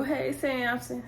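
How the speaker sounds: slow, soft, lifted hello; drawn-out, softly teasing hello; playful greeting. Real, not acted. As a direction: coyly greet him through the camera. Greets Samson watching the video.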